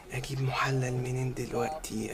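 slow whisper to himself; whispered worry. Acted. Husband wondering where to find a stand-in husband, whispered. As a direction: whisper it anxiously. Panicked thinking aloud.

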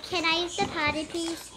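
imitating a pleading classmate; pleading friend. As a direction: ask sweetly like a little kid. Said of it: "She said it like that".

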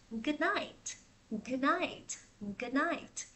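"Good night" said softly, rising, with a crisp T; soft "Good night" with the T released. Shown as a demonstration. Teacher repeating "Good night" softly to model the T. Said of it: "buổi tối mình sẽ đọc là night".

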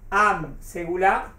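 slow, drawn-out Am Segulá, each syllable spaced; slow dictation. Shown as a demonstration. Teacher to students, dictating the term slowly. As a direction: spell out Am Segulá slowly for the class.

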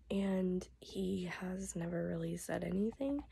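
voice giving out. Real, not acted. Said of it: "my voice will last".

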